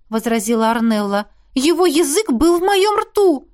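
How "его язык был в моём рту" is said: put-on high, slow, insistent girl; emphatic girlish voice. A narrator's reading. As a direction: press the point, scandalised. Arnella insists on the kiss. (высоко, медленно и с нажимом)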